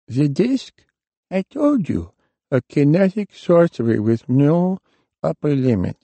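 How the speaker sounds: put-on a smug old sorcerer explaining his trick; the warlock gloats calmly to Hap about the disc. A narrator's reading.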